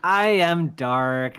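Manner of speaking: very slow, dark villain declaration. Pretend. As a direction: drag it out like a brooding villain. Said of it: "you have a villain voice".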